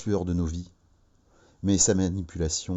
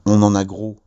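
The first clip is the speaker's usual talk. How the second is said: placard slogan; 7 dB louder than usual. Acted. Reading out the protest placard.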